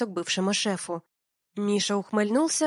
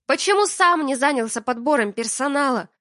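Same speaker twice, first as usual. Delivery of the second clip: higher, louder reproach; angry reproach; 5 semitones higher, 6 dB louder than usual. Acted. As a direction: demand an answer. Алина упрекает.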